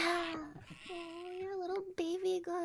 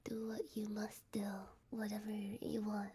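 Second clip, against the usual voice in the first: whispering; 5 semitones lower, 5 dB quieter than usual. Real, not acted. Talking softly to sleepy friend.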